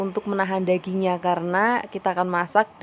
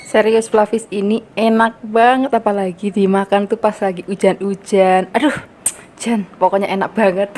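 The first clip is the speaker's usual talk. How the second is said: excited; 6 dB louder than usual. Real, not acted. Tasting the dish, raving.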